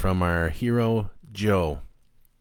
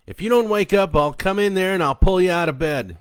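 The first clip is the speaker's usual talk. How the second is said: loud, much higher furious yell; stepdad yelling; 10 semitones higher, 8 dB louder than usual. A narrator's reading. Stepdad threatening to drag the boy out, loud furious yell. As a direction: yell the threat at full force. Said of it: "his stepdad yelled".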